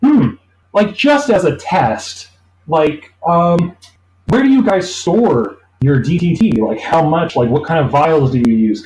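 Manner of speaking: pry with fake innocence; sly interviewer. Interviewers fishing for secrets.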